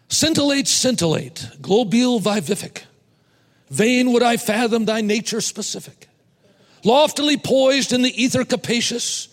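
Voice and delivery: grand, lofty recitation of inflated words; pompous high-sounding recital. Shown as a demonstration. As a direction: declaim it like a pompous orator. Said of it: "It's the same poem, it's just different words".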